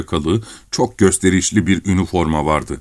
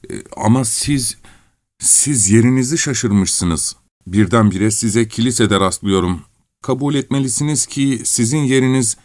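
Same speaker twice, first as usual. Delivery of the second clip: lightly voiced, hesitant petitioner, pitched up in places; flustered Kovalev; 3 semitones higher than usual. Kovalev awkwardly confronting his nose in church, lightly voiced and hesitant. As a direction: tread carefully, faltering before a superior.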